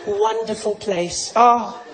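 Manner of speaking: hushed swooning with big sighed ohs; dreamy longing. Acted. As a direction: yearn reverently, swelling on each oh. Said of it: "South Africa's like".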